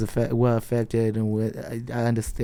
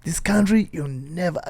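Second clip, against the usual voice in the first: put-on African accent; 4 semitones higher, slower than usual. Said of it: "with my African voice".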